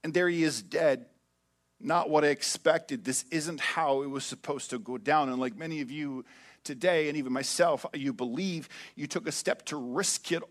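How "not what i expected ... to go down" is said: low, soft, deflated; a follower, softly crushed; disappointed. Retold or imitated. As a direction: quietly let the hope drain out. Disappointed follower's inner thought.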